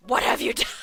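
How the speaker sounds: loud, horrified laughing disbelief; shocked. Real, not acted. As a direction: blurt it out in shock. Shocked reaction to four kids.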